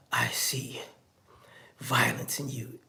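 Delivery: low, soft, slow pronouncement; ominous mock accuser. Accuser claims to see violence in someone, ominous and hushed.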